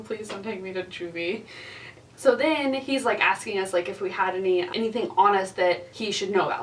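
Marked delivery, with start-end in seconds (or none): 0.0-1.4 hushed, mock-tearful begging; crying plea. Teller imitating a crying kid begging the cop, tearful plea. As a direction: softly imitate a kid pleading through tears. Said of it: "he's just crying".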